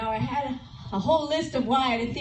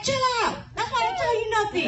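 high, loud, fast and laughing; quick laughing teasing snap; laughing brush-off; 9 semitones higher, 5 dB louder, much faster than usual. Retold or imitated. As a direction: rattle it off laughing at him. Retelling her reply to husband.

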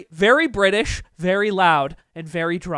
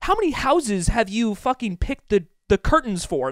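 amazed; 3 semitones higher than usual. Retold or imitated. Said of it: "I'm like".

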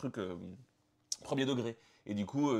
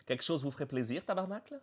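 put-on Quebec accent; 4 semitones higher than usual. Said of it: "avec un fort accent québécois".

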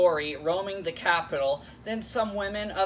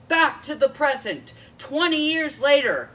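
higher, louder title read; title announcement; 8 semitones higher, 6 dB louder than usual. Acted. Host announcing the episode title to viewers, dramatic announcement. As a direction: call it out like a headline.

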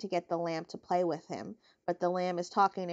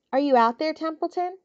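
calling out; 7 semitones higher, 4 dB louder than usual. Acted. Wilbur calling out for rat.

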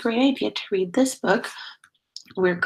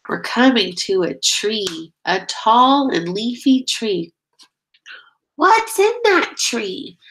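sing-song storybook reading, steady beat; reading to children. Acted. Teacher reading a nature book to her class, sing-song. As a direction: lead the chant for little listeners. Reads picture book aloud.

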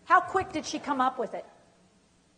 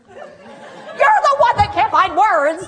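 higher, louder, slow and sarcastic; a hammed-up indignant comeback, higher and louder; sarcastic inner retort; 9 semitones higher, 12 dB louder, slower than usual. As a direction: snap back in your head, slowly. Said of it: "you're just thinking".

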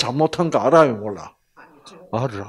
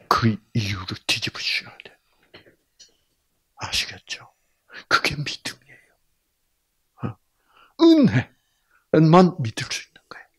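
hushed preaching; whisper; 3 semitones lower than usual. Real, not acted. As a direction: whisper it intimately to the congregation.

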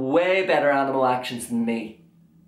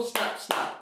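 crocodile snaps; 8 dB quieter than usual. Shown as a demonstration. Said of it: "crocodiles go".

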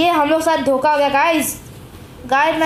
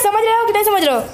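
pitched up high, mock teasing; playful high-pitched taunt; teasing singsong; 7 semitones higher, faster than usual. Real, not acted. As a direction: tease the viewers in a high voice. Teasing viewers, repeated question.

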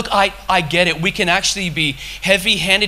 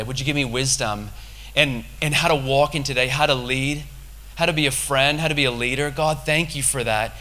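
softer, intimate prayer voice; private prayer; 3 semitones lower, 4 dB quieter than usual. Retold or imitated. Speaker shows his personal prayer to God, softly prayerful. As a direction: pray it quietly and simply.

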